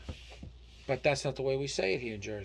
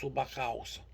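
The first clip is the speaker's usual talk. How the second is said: Italian accent; 4 dB quieter, slower than usual. Shown as a demonstration. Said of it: "say in the back house with Italian accent".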